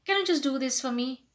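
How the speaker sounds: casual, presumptuous request at full voice; too direct. Shown as a demonstration. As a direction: ask bluntly, expecting a yes. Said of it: "do not say directly".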